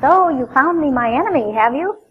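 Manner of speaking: lightly voiced sneering king; a touch of scorn as he greets his enemy; wry "so you found me" jab; mock sarcastic retort. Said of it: "Ahab's marvelous response".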